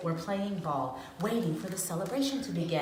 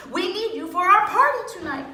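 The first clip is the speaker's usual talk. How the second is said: sweet voice; 10 semitones higher, 6 dB louder, faster than usual. A narrator's reading. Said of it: "in a sweet voice".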